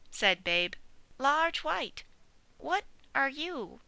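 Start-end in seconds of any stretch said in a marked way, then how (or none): 1.2-3.8 high little piglet voice; bright squeaky young pig. Acted. Piglet answering the old sheep, high piglet voice.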